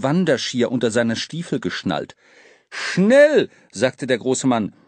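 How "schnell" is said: urgent. Acted. Urgent rescue in snow.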